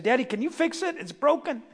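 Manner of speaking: a hint of a small boy asking for help; little boy. Preacher as boy asking dad to fix toy car, lightly voiced little boy. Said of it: "A little boy had a toy car".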